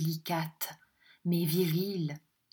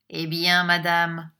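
impatient and a little louder; 7 dB louder than usual. A narrator's reading. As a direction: press the question, louder, impatiently. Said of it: "avec impatience". (impatient, un peu plus fort)

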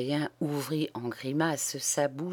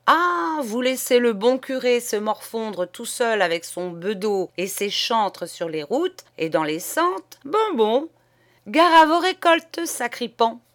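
lightly voiced scolding God, higher and louder; a hint of an offended deity threatening; God's wrath; 5 semitones higher, 4 dB louder than usual. Priest acting God scolding the parents, mock-threatening.

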